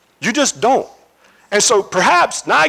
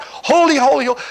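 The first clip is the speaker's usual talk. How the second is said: shouting back; 4 semitones higher than usual. Acted. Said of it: "the other one shouts back".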